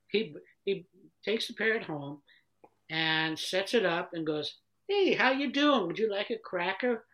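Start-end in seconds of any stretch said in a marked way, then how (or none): 4.9-7.0 higher, chirpy hello to a pet; acted cheery pet-owner greeting; friendly greeting. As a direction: greet the parrot eagerly. Owner greets new pet parrot.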